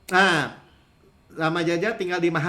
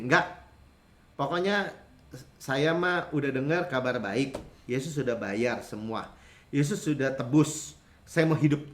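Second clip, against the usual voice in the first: complacent believer; 5 semitones lower than usual. Retold or imitated. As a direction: play the smug churchgoer who wants to just live. Preacher voices a complacent believer. (suara jemaat yang puas diri, pelan dan rendah)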